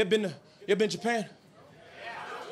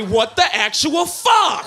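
disbelieving; 2 semitones higher, 5 dB louder, slower than usual. Retold or imitated. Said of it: "I say".

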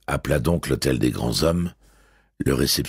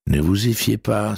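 smiling; 7 semitones higher than usual. A narrator's reading. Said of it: "sourit Adamsberg".

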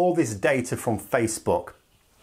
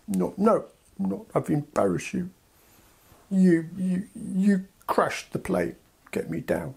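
put-on whiny toddler; 5 semitones higher than usual. UK as toddler blaming the EU, whiny blame. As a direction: whine it like a kid blaming others.

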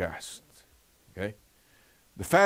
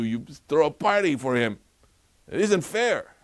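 indignant rant; 3 semitones higher, 4 dB louder than usual. Retold or imitated. Elder brother protesting to his father, indignant and loud. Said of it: "he was raging mad".

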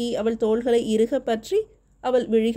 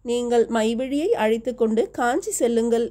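ordinary delivery

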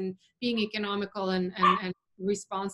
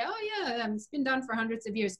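mock nonchalance; 3 semitones higher than usual. Winemakers answering questions about animal products, mock nonchalant. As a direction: imitate someone brushing it off lightly. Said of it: "nonchalantly say".

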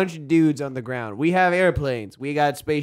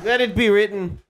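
solemn decree; 7 semitones higher than usual. Pretend. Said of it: "it has been decreed".

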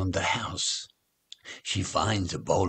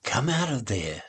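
gentle; 3 semitones higher than usual. Acted. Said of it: "says her mum in a gentle voice".

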